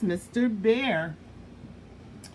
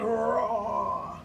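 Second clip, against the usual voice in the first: mock lion roar. Shown as a demonstration. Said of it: "And roar like a lion".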